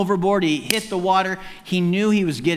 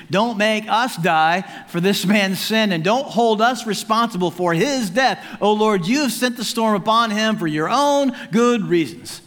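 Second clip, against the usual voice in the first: raised-pitch plea, moderately earnest; pleading; 5 semitones higher than usual. Acted. Sailors praying not to die for Jonah's sin, pleading. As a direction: beg for mercy, higher and insistent. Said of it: "they pleaded".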